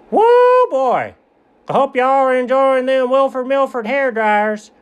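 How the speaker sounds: hearty salesman. Acted. Salesman voiced in story.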